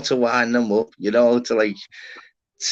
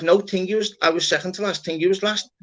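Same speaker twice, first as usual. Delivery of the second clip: higher, stubborn mock insistence; insistent lad; 8 semitones higher than usual. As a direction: play the lad who won't back down. Voicing the deadpan lad.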